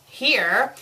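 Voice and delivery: "here" with a clear EE sound, rhyming with ear; misspelling read literally. Acted. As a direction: say "here" as written, like hear. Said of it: "it should say her".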